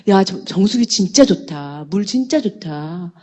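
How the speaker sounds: slow, drawn-out product praise; acted admiration. Relatives raving among themselves about products, slow acted admiration. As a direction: linger on the praise, lightly play-acted.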